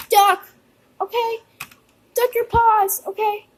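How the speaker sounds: high-pitched pretend alarm; urgent warning. Tornado about to hit, urgent order.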